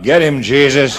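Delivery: parrot yelling. Retold or imitated. Parrot calls the Doberman on the burglar, yelling. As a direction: bark it out like a parrot siccing the dog. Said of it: "the parrot yelled out".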